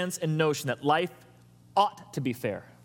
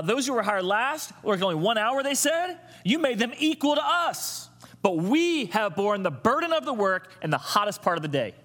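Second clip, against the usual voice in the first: grumbling workers; 5 semitones higher than usual. Retold or imitated. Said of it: "He grumbled to the landowner".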